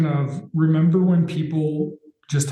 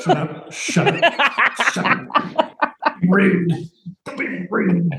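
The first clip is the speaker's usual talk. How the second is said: high, giggling protest building from breathy to squeaky; laughing shut up; 4 semitones higher, much slower than usual. Real, not acted. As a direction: laugh through the mock protest. Laughing off friend's teasing.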